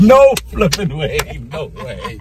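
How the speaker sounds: high laughing no way; laugh, can't believe it; laughing disbelief. Real, not acted. Laughing disbelief over bike.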